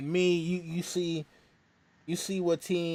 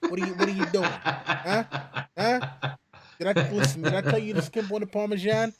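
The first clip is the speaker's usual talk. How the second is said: put-on a lightly done Italian mobster accent, a bit quick; faster than usual. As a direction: play a movie wiseguy leaning on someone. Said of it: "they're always, Hey".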